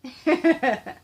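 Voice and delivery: short burst of laughter at own silliness. Real, not acted. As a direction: laugh out loud after clowning around.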